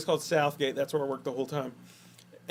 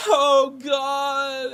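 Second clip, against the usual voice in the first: imitating a passionate moan; 9 semitones higher, 3 dB louder than usual. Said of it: "it sounded like she was screaming".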